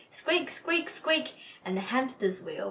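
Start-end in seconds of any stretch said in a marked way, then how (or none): 0.1-1.3 high, squeaky little mouse; mouse squeak. Acted. Reading to children, the small white mouse squeaking high. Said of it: "And the small white mouse said".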